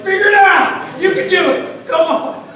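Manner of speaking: high, loud comic yelling; mock frantic urging. Passenger egging on the mechanic, high frantic yell. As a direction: urge someone on, voice pitched right up.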